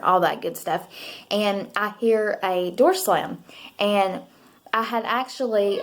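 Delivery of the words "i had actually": talking with a hair in her mouth; words caught on a hair in the mouth. Real, not acted. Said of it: "sorry, I got a hair in my mouth".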